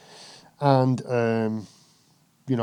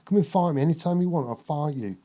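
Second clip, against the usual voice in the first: higher brash fighter's taunts, hammed up; mock Nigel Benn threats; 5 semitones higher than usual. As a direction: play a fired-up boxer daring his rival, pitched up. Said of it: "Like that".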